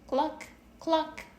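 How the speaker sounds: high clucking hen; high chicken cluck. A narrator's reading. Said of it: "The hen said".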